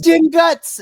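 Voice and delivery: loud, high British battle cry; mock-British shout, high and forceful; British accent. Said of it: "in her British accent".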